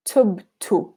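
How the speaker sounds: "tubtu" with the last dhamma close to u; final dhamma. Shown as a demonstration. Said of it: "hear how that dhamma sounds".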